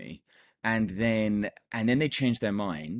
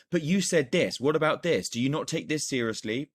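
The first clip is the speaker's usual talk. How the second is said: confrontational; 5 semitones higher than usual. Shown as a demonstration. Coach shows the wrong pushy reply to a client. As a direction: push back hard on the client's objection. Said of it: "the worst thing that you can do".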